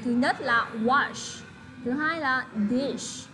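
slow, "wash" and "dish" held out; stressing the sh words. Shown as a demonstration. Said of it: "hai âm sh".

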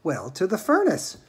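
unruffled, matter-of-fact answer; calmly. Acted. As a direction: answer mildly against the shrieking. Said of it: "said Mister Wonka calmly".

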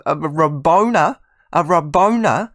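Rabona with BO punched high and loud; over-emphasised second syllable. Real, not acted. Gamer amazed by a trick pass, Rabona over-stressed on BO. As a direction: lean far too hard on the BO in Rabona. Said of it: "way too much emphasis on the second part".

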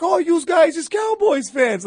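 high, loud put-on tough-guy voice; mock Philly fan. Philly fan mocking the visitors, loud put-on voice. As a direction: sneer it like a local heckler. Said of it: "the guy's like".

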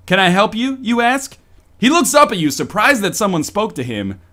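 lively storybook narrator; animated game master's scene setting; game narration. Acted. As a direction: read the scene out with rising and falling swing.

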